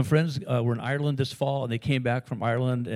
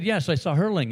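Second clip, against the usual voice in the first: higher, louder quote of an enthusiastic friend; excited retelling; 6 semitones higher, 5 dB louder than usual. Retold or imitated. Friend back from Ireland tells what he saw, imitated excitement. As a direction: imitate a friend eagerly reporting.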